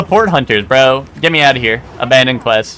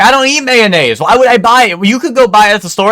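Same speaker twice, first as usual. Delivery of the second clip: mock roommate voice; 7 semitones higher than usual. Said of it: "He's like".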